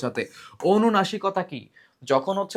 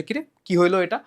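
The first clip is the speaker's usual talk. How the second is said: mild surprise; 3 semitones higher than usual. Shown as a demonstration. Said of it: "মানে অবাক হইছো যে".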